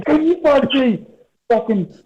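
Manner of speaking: silly high caricature voice; mocking dumb Yank. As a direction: lampoon a gullible American begging to be chipped. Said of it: "So they'll go".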